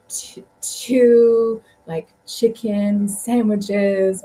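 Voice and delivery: drawn-out, over-careful words; slow foreigner-directed ordering. Retold or imitated. Tourists miming an order to a chicken seller, slow and over-careful. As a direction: stretch each word for someone who speaks no English.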